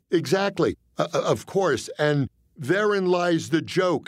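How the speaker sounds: nervous halting explanation; stammering. Retold or imitated. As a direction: stumble through it, rattled. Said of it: "I stammered".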